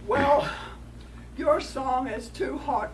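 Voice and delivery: loud, slow coyote complaint; lightly voiced coyote scolding a rock.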